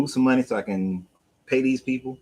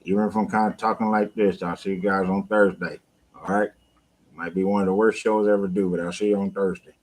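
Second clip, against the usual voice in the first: mock post-dental-surgery speech. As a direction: imitate a mouth numb from dental work. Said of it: "I got my little dental surgery tomorrow".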